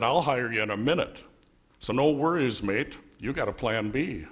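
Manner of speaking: lightly attempted Australian accent; a hint of badly faked Australian. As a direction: do a clumsy Aussie accent. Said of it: "worst Australian accent I've ever heard".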